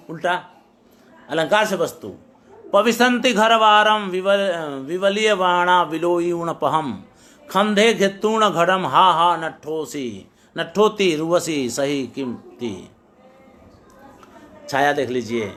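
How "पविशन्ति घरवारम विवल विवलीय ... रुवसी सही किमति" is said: measured recitation of a Prakrit verse. Acted. Teacher recites the Prakrit verse to the class in a measured recitation. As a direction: recite the verse in a rhythmic, chanting cadence.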